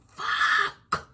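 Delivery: breathed curse under the breath; whispered curse. Retold or imitated. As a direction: hiss it so she won't hear. Seeing her on the porch.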